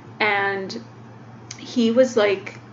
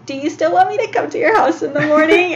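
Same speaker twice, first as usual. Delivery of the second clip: higher, louder voice quoting the driver; retold driver's question; 7 semitones higher, 5 dB louder than usual. Bus driver asks her rider about mornings, lightly imitated. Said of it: "and she's like".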